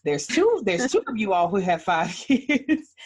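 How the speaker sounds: excited. Real, not acted. Host excited by two moms.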